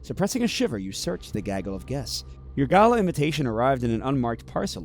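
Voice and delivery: measured storyteller read, setting the scene; story narration. A narrator's reading. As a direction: draw the listener into the gala.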